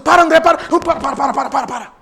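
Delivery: urgent inner voice saying stop; Holy Spirit telling him. Retold or imitated. Holy Spirit stopping André from thinking badly, firm urgent. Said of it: "o Espírito Santo".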